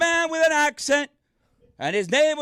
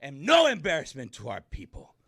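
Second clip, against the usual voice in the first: proud declaration; 2 semitones lower than usual. Real, not acted. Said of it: "proud declaration".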